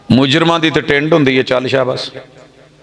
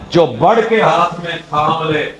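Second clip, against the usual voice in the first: recited verse. Shown as a demonstration. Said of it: "verse recited second time".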